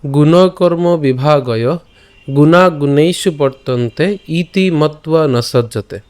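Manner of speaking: slow, careful Sanskrit verse chant; verse recitation. Shown as a demonstration. Teacher reciting the shloka to the class.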